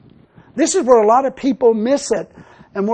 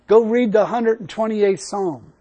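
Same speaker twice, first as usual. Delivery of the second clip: voice of God; slower than usual. Retold or imitated. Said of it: "it sounded like a voice was behind me".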